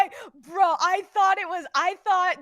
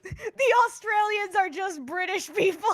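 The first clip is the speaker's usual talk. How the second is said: laughing; 7 semitones higher than usual. Real, not acted. Laughing repeating joke.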